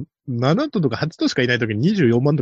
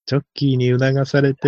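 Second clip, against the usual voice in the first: lightly imitated measured race commentary; a hint of patient announcer impression; stalling race announcer. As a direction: keep filling time like a trackside caller. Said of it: "なんとか場をつなごうとする実況中継の人".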